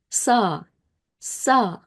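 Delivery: "sa" read as one open syllable; "sa" said separately as a reading model; blended syllable. Shown as a demonstration. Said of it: "Together we read it as".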